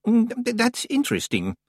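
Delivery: high, hesitant, distracted old librarian; Senior Librarian Swinsley. A narrator's reading. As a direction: mumble it while rummaging, fluttery and high.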